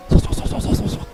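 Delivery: slow robotic swa speeding up; helicopter noise. Retold or imitated. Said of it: "start really slow ... like a helicopter taking off".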